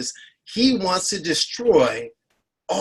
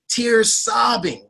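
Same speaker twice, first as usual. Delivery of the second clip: usual speaking voice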